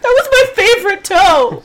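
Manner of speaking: high, loud mock whine about the toe; hammed-up wail over a hurt toe; stubbed toe. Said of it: "he stubbed his toe".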